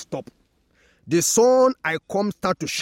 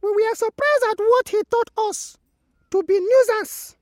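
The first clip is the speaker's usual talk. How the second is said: much higher, lightly louder sun complaining; 4 dB louder than usual. Acted. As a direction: pitch it up high like the sun. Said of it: "The sun added".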